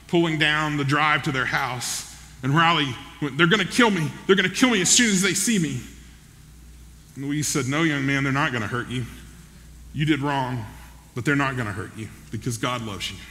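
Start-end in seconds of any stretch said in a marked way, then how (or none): 3.4-5.8 hurried, slightly raised frightened quote; a touch of retold alarm; mild acted panic. Convict panics as police arrive. 7.7-13.2 low, gently firm acted comforting; quietly reassuring retold quote; calm reassurance. Grandmother reassures the frightened convict.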